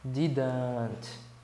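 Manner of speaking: "didn't" drawn out in two syllables, "di-dnt"; pronunciation of "didn't". Shown as a demonstration. Teacher showing students how "didn't" is pronounced, carefully. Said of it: "como que se pronuncia".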